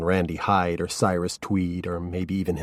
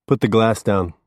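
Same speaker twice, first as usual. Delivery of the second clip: firm order; 3 semitones higher, 6 dB louder than usual. A narrator's reading. Perry orders Norman.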